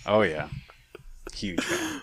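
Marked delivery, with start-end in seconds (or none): 1.3-2.0 whispering. Real, not acted. Deadpan aside about Bane voice.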